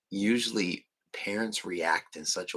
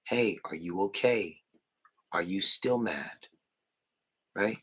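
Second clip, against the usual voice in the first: plain calm asking. Shown as a demonstration. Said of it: "if you ask a grown adult".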